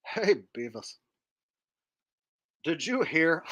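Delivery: lightly voiced dopey cartoon teen; a hint of a dim cartoon slacker; Butthead. Starting a cartoon duo bit without a premise, Butthead impression. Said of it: "a Beavis and Butthead impression".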